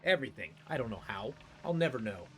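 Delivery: defensive anger. Acted. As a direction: bristle and deflect. NPC defensive outburst.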